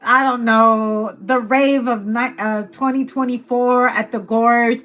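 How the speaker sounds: loud, lightly mocking public announcement; cheeky announcement breaking into a laugh; social media shout-out. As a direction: read it out like a callout to everyone. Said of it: "someone's gonna put it on the post".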